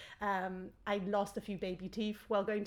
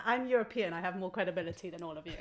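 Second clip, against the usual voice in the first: mock smug tagline; 3 semitones lower, faster than usual. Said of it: "I'm gonna take that".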